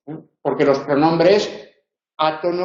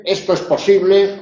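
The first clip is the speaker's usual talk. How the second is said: exclaimed, higher, posible stressed; as an exclamation; 5 semitones higher than usual. Shown as a demonstration. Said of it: "de exclamación".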